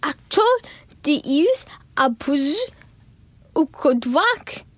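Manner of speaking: slow squawking parrot. A narrator's reading. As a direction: squawk it like a bird. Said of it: "the parrot squawked".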